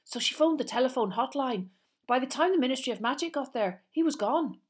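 high, loud, excited schoolboy chatter; Seamus. Acted. Seamus tells of the Muggle who saw him, excited. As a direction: tumble out the gossip excitedly. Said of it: "who looked excited".

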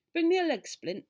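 high, loud, brisk command; urgent doctor's instruction; called-out order. A narrator's reading. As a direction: call it across to helpers. Doctor orders the ambulance men.

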